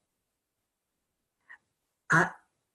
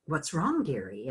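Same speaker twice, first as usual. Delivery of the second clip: tender; 5 dB quieter than usual. Retold or imitated. Kind old teacher comforting.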